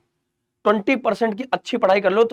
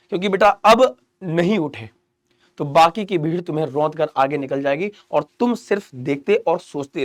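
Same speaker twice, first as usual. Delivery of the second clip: गंभीर चेतावनी; 5 semitones lower than usual. Real, not acted. (धीमी, गंभीर चेतावनी)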